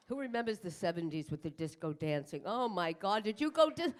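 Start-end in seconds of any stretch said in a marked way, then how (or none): none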